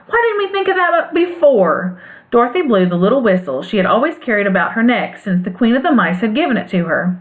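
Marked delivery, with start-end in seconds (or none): 0.1-2.0 a lightly voiced eager cry, pitched higher; cried out. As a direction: call it out, suddenly struck by the idea. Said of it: "cried the Scarecrow".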